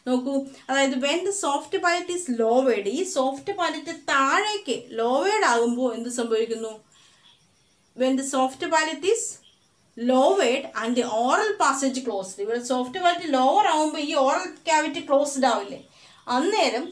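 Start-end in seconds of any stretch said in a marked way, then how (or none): 1.0-2.9 slowed English definition read aloud; dictated textbook line; slow dictation. Shown as a demonstration. 8.0-12.4 very slow, word-by-word dictation for notes; slow textbook dictation. Shown as a demonstration.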